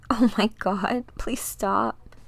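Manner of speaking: breathless whispered plea, begging; pleading whisper. Acted. Dinah whispering in terror during the mental attack. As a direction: beg it to stop under your breath.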